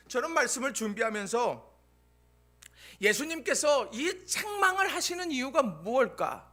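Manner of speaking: ordinary talk, nothing marked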